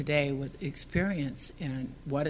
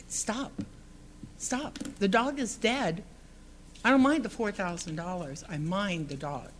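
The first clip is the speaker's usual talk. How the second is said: higher, pleading cry of stop, rising in pitch; pleading outburst; 5 semitones higher than usual. Retold or imitated. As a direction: plead with him to stop, voice climbing high. Retold pleading with the neighbor.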